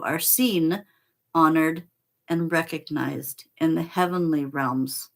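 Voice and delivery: measured, earnest reading of a sacred text; solemn card reading. Acted. Reading the card's message to Michael, in solemn reading voice.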